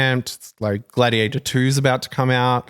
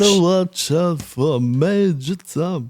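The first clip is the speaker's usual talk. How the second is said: mock ominous warning; 5 semitones higher, slower than usual. Joking in a put-on voice.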